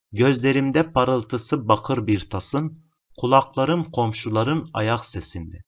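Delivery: slow poem reading. Shown as a demonstration. Teacher reads poem from question.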